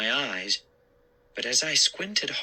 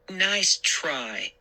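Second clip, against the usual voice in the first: dry; 5 semitones higher than usual. Acted. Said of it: "she said dryly".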